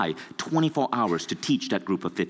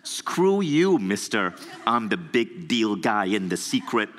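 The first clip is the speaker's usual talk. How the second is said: mock angry retort. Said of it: "And I was pissed off".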